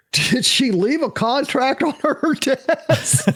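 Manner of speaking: high, slow, stretched-out question; hammed-up desperation, pitched high; mock desperate plea. Actor retelling his reaction to bad news, mock desperate.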